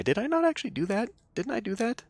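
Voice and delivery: high puzzled questioning. Real, not acted. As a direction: wonder aloud, unsure. Player puzzled about past action.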